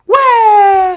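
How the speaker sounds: high, loud disbelieving where; shocked where. Real, not acted. Hearing about bleaching injections, shocked where. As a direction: blurt it out in disbelief.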